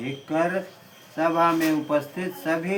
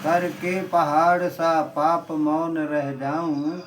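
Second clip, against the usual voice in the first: poem recitation. Acted.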